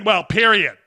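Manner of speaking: imitating a smug, dismissive "Well, period."; mock her smug tone on "Well, period."; mocking the smug player's "Well, period." with a touch of smugness; smug mimic. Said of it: "She's so smug saying".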